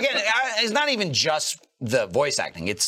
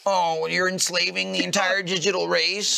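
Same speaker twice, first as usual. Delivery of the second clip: Wormmon; 3 semitones higher than usual. Acted. Wormmon reassures Ken despite everything, mock-devoted. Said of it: "I'll always be there for Wormmon".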